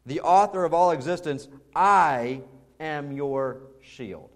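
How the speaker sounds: "I" held long and loud, with slow, weighty titles between; forceful, deliberate build around a drawn-out "I"; emphatic "I". Acted. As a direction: declare God's authority, leaning hard on "I". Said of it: "it is the emphatic word in the sentence".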